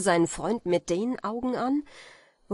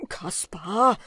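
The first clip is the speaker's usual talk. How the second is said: lauter, fragender Anruf; wahnsinniger Ruf; 5 dB louder than usual. A narrator's reading. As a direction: ruf ihn ungläubig an. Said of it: "schrie Wim wie ein Wahnsinniger". (wahnsinnig rufend)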